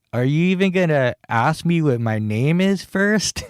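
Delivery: shocked but amused. Retold or imitated. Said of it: "shocked, but amused".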